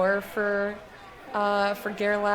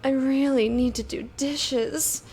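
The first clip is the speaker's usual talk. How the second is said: sex line operator voice; 2 semitones higher than usual. Shown as a demonstration. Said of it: "I like to say stuff in that voice".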